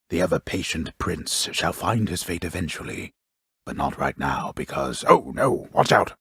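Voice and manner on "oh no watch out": high, sudden cry of alarm; alarmed warning. Acted. Narrator interrupts his own tale to warn the prince, alarmed. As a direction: break off in mock alarm, pitched well up.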